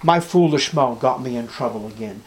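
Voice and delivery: mildly groaned confession to God; a touch of weary self-reproach; rueful groaning. Acted. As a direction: act out a low-key, regretful prayer. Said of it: "Do you groan about yourself".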